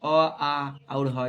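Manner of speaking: "अ, आ और ह" said very slowly and loudly from the throat; throat sounds demo. Shown as a demonstration. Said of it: "कंठ से होता है". ("अ, आ और ह" धीरे-धीरे कंठ से ज़ोर से बोलना)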